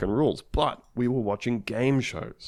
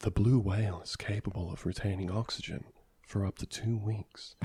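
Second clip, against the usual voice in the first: soft, calm, lulling, soothing narrating voice; 3 semitones lower, 8 dB quieter than usual. Describing an experience, the speaker imitates a lady reading information in a really soothing voice. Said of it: "but like in a really soothing voice".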